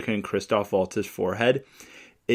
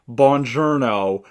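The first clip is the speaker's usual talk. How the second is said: mock Italian; 4 dB louder, slower than usual. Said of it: "He's pretending to be an Italian".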